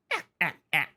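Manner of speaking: light playful ah-ah-ah laugh; a teasing little three-note laugh; priestess laugh. Acted. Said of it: "Beautiful laugh".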